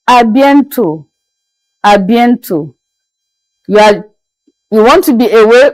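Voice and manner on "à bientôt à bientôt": "à bientôt" modelled as a-bien-TO, final T silent; French pronunciation. Shown as a demonstration. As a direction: say "à bientôt" clearly, ending on an open "to". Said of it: "it is pronounced in French as".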